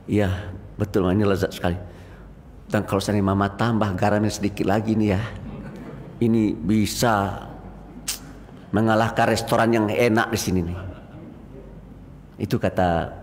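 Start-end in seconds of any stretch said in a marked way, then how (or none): 0.1-10.8 gentle praise. Retold or imitated. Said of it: "katakanlah kepada istrimu itu".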